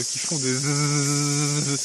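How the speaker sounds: bourdonnement de cigale; buzzing sound. Shown as a demonstration. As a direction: imite le zzz des grillons. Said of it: "grillons et de cigales". (imitation de cigale)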